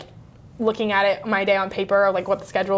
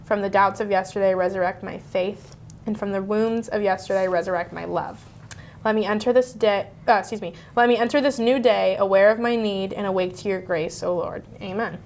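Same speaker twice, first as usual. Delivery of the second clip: prayer reading. Acted. Reads the liturgy prayer aloud.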